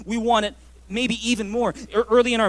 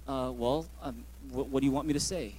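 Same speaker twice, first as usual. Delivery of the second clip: clueless husband; 7 semitones lower, 7 dB quieter than usual. Retold or imitated. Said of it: "I'll be like".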